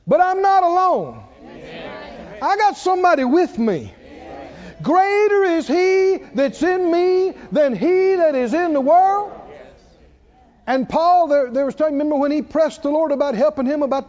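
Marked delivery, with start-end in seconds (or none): 0.1-9.3 triumphant preaching. Acted. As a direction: rise up and declare it with triumph. Triumphant answer to the devil.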